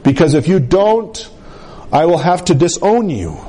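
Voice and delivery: lightly voiced stern father; restrained, retold sternness. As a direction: lay down a warning, imitating a strict father. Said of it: "being a stern Muslim".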